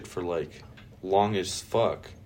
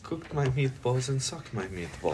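put-on higher-pitched joke Italian accent; mock Italian accent; 4 semitones higher than usual. Echoing the co-host's meatball joke, mock Italian accent. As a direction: ham up a fake Italian, pitched up. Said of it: "that even Italian anymore?".

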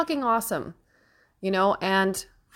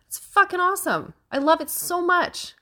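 higher, overwhelmed with pride and joy; emotional; 9 semitones higher than usual. Real, not acted. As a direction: voice lifting as feelings well up. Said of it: "I feel like I'm gonna get emotional".

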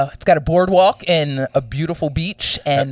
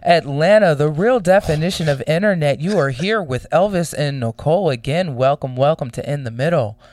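radio voice; 2 semitones lower than usual. Shown as a demonstration. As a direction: read it like a radio DJ. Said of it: "I'm doing my, uh, radio voice".

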